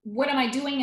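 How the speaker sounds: a touch of exasperation, voice lifted; mild frustration. Retold or imitated. New York actor questioning their own career, mildly frustrated. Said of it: "one of those frustrated New York actors going".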